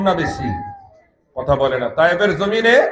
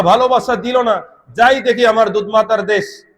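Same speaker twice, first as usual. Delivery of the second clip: raised sermon storytelling; preaching narration; 3 semitones higher than usual. Real, not acted. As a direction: tell it to the congregation in a lifted preacher's voice. (চড়া গলায় ওয়াজের বর্ণনা)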